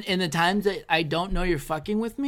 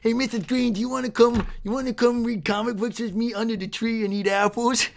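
summer school Marcus impression; 2 semitones higher than usual. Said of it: "your impression of summer school me".

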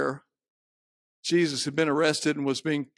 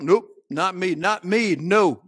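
raised, quick-fire protest; mild insistent denial; 4 semitones higher, 5 dB louder, slower than usual. Acted. Peter denying he is a follower, mildly insistent. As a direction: brush off the accusation, a touch louder.

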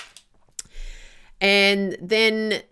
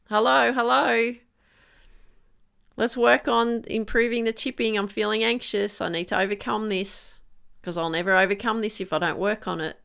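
problem calling out; 4 semitones higher than usual. Pretend. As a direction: hail the player like an alarm going off. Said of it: "It's telling you something".

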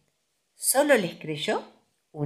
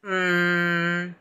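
long, steady "mm"; pondering murmur. A narrator's reading. Owl considering what to do about Tiger, murmuring. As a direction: hum as if thinking. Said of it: "murmuró el búho".

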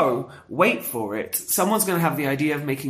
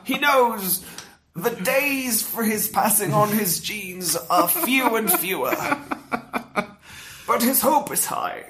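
hushed wildlife documentary voice, a hint of Attenborough; nature documentary narrator; 5 semitones higher than usual. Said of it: "I wish I could do a David Attenborough voice".

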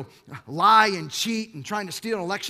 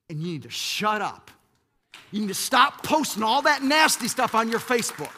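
scolding; 2 semitones higher, 5 dB louder than usual. Acted. Preacher scolding Facebook gossipers.

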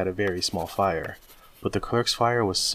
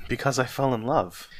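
put-on higher, lighter young man's answer; open, lifted reply; earnest; 4 semitones higher than usual. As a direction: answer simply and sincerely. Nephew answers, before Scrooge mimics.

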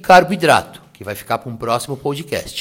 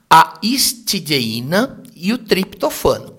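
over enunciating. Shown as a demonstration. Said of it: "eu vou falar pausadamente".

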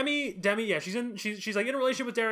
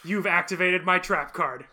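mock duelist. Playing host as card duelist.

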